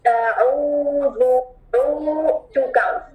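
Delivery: अऊज़ु slow, with its long vowel held two counts. Shown as a demonstration. (दो हरकत तक खींचें)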